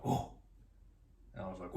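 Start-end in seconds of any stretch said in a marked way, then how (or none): 0.0-0.3 short, restrained chimp hoot; tentative monkey hoot. Retold or imitated. First monkey approaches him for his bananas, tentative hoot. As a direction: imitate a chimp's single cautious hoot. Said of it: "one monkey came up first, and he was like".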